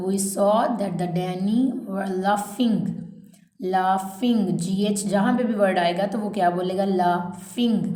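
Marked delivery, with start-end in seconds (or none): 0.1-4.4 slow, spaced-out dictation read; measured classroom dictation pace. Shown as a demonstration. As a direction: read each phrase slowly so students can write it down. Teacher reads dictation aloud.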